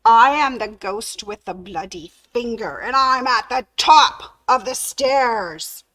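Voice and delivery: ghost moaning a little stronger. Acted. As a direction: let the ghost creep closer. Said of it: "he heard it even louder".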